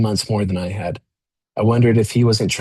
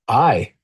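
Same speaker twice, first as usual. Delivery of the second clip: "I" lifted and held, set apart with a pause after; stress on I. A narrator's reading. Narrator insisting to the cellmate, hitting "I" firmly. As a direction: lean hard on "I" as if it alone matters. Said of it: "placing all the emphasis on the word I".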